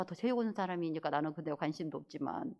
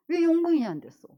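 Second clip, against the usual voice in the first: loud, high demanding question; worked-up protest; indignant anger; 8 semitones higher, 10 dB louder than usual. Real, not acted. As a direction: demand it in exasperation. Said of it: "그냥 화가 났어요".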